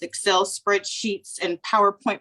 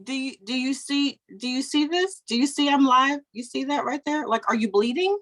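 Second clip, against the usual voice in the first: raised-pitch mock telling-off; exasperated mom; 4 semitones higher than usual. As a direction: pester an interrupting child with pointed questions. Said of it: "normally that's how I would talk to her".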